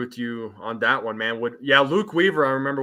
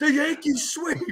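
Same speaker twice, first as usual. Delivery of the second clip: put-on high-energy voice, higher pitched. Trying an impression of Joey from the shift: Joe impression. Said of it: "I'm gonna try and do a Joe impression".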